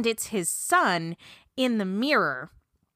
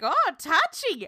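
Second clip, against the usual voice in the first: higher-pitched mock-offended quip; goofy aside; 5 semitones higher than usual. Aunt to the camera after being yelled at, goofy mock huff. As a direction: goofily toss it off as an aside. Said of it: "goofily looks towards the camera".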